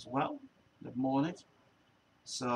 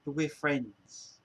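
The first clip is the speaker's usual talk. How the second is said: whiny mock plea; much slower than usual. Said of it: "It's like".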